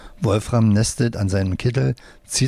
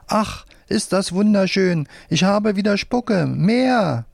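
delighted squeal; 10 semitones higher than usual. A narrator's reading. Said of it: "Die schreit auf".

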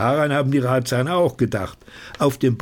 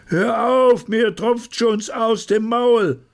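sehr hoch und gierig; gieriger Zuruf; 11 semitones higher than usual. Acted. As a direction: als läuft das Wasser im Mund. Gieriger Zuruf aus der Menge. (sehr hohe, gierige Stimme)

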